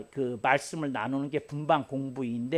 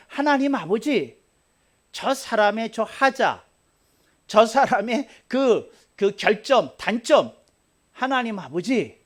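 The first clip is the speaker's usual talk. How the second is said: fervent prayer; 5 semitones higher, 4 dB louder than usual. Shown as a demonstration. Pastor modelling a prayer for an enemy, high and pleading. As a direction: pray earnestly for the other person. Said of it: "하고 네가 기도해야 되는 것".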